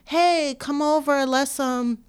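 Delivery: a hint of a smooth invitation, imitated; sweet-talking Michael. Mock Michael coaxing a boy to come over. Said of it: "he would start off like".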